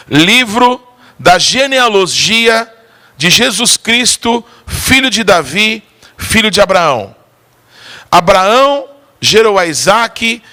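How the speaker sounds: reading the names slowly, laboring; slow halting reading. Retold or imitated. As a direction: plod through the list of names. Sick man reads genealogy slowly. (leitura lenta e arrastada)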